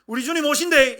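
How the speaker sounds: Gyeongsang-dialect shout, "오신데이" with a falling ending. Shown as a demonstration. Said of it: "경상도 버전입니다".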